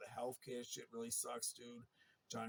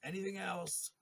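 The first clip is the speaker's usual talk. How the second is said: yelled order; 5 semitones higher, 5 dB louder than usual. Retold or imitated. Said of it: "I said".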